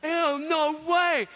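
high gasp, then drawn-out disbelief; slow, high-pitched wonder; retold awestruck amazement. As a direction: play a kid losing his mind over a star. Retold child awestruck by a singer.

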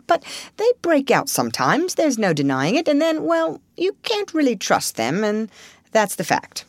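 lightly voiced Rat, reluctant admission; hedging Rat. Rat warns Mole about weasels and stoats, hedging. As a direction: rise and falter towards the awkward truth.

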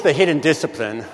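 ordinary delivery

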